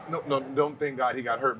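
ordinary talk

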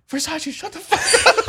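high, laughing mock yell at Versace; quoting the guy through laughter. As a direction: yell it while cracking up. Friend yelling at Versace, laughing.

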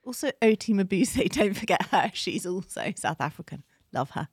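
put-on South African accent; lively imitation South African accent. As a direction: chat away as a South African. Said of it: "Can you do South African?".

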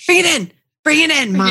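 high, sing-out call for a hug; playful beckoning. Pretend. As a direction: playfully summon someone into a hug. Host playfully calls mom into hug.

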